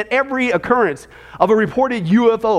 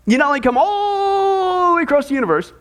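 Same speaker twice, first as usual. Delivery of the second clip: indignant shout; 6 semitones higher than usual. Real, not acted. Pastor mocking channeled alien claims.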